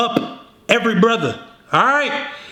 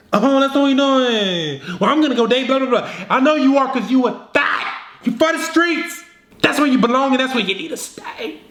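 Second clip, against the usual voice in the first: higher-pitched, hammed-up bickering; mock spat; 5 semitones higher than usual. Acting out an ex couple's spat, mock huffy. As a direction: trade petty comebacks in a put-on higher voice.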